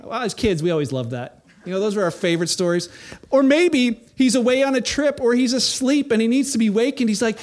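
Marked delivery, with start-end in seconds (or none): 3.3-7.1 sarcastic taunt; mocking. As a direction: needle them about their sleeping god. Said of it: "Elijah began mocking them".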